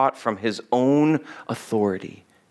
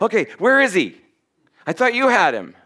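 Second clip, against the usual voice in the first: higher-pitched mock bewilderment; baffled mob; 5 semitones higher than usual. Mob member to his mates after losing Jesus, baffled. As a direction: act out a puzzled mob member.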